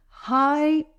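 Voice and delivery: "Hierarchy" in separate, spaced syllables; broken into syllables. Shown as a demonstration. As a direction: pause between all the syllables of "Hierarchy". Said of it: "Let's break it down".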